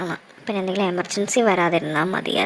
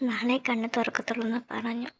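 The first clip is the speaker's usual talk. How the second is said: hushed bedside talk; 6 dB quieter than usual. Acted. Beside sleeping mother in hospital.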